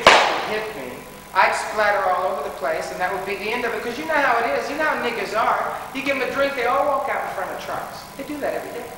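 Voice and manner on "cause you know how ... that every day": mocking sarcasm. Mocking the racists' logic.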